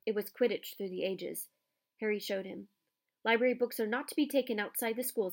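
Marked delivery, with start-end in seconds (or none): 3.2-5.3 cold Snape voice. Acted. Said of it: "said Snape".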